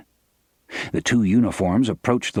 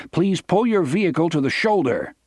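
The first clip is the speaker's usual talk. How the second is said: booming bullhorn voice; 8 semitones higher than usual. A narrator's reading. Guard calling to the car through a bullhorn, booming. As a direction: boom it out over a loudspeaker. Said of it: "came the voice again".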